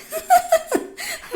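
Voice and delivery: a sudden high burst of laughter; high delighted laugh. Real, not acted. Mother laughing at her son eating with his hands, high delighted laugh.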